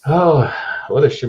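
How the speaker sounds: mock Yiddish-accented lament; hammed-up Jewish-accent grumbling; bad Jewish accent. Host trading Yiddish insults, bad Jewish accent. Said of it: "bad Jewish accents".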